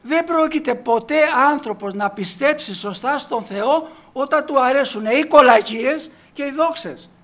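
forceful preaching. Acted.

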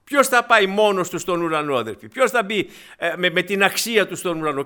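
loud, rising preacher's call; impassioned sermon cry; fervent preaching. Acted. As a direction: thunder the question at the flock. Preaching at full force.

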